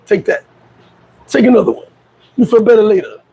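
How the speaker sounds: lightly imitated Russian accent; a hint of a Russian buddy's accent; Boris. Russian friend handing out vodka from the trunk, lightly imitated Russian accent. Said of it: "He'd be like".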